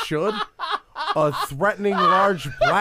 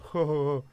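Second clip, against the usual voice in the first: imitated forced ho-ho laugh; mock hearty chuckle, not real; fake laugh; 3 semitones lower than usual. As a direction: mimic a put-on laugh. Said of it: "I knew his laugh was fake".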